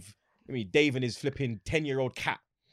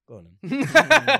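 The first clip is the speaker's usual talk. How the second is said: acted quote; 10 semitones higher, 11 dB louder, much slower than usual. Retold quote, strongly shifted voice.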